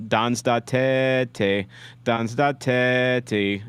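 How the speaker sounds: "Dans da tete" drawn out slowly, "tete" in two syllables; tentative French pronunciation. Shown as a demonstration. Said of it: "if that's how you say the French".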